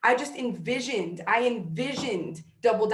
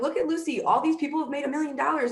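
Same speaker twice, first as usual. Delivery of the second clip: excited pointing out; 5 semitones higher, faster than usual. Retold or imitated. Showing daughter the stage.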